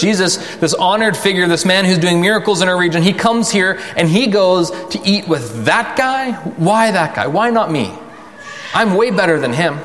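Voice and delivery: mock self-righteous crowd voice; indignant grumbler. Voicing the grumbling townspeople.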